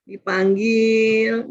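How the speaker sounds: gentle call. Shown as a demonstration. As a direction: call the child gently, drawn out. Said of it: "Ngomongnya lembut".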